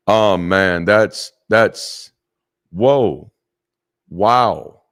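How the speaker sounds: loud, stunned exclamations; overwhelmed by the gift; real amazement. Real, not acted. Pastor reacts to a generous donation, loudly amazed. Moved by a big chat donation.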